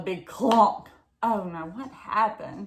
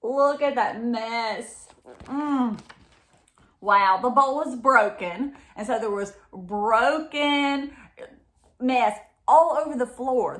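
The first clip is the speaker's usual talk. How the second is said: shocked; 5 semitones higher, 6 dB louder, slower than usual. Acted. Mama sees the kitchen mess.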